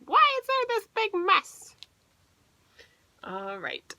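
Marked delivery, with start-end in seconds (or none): 0.1-1.8 higher scolding mom voice; mother finding the mess, higher pitched. A narrator's reading. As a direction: demand it like an exasperated mother. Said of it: "She said".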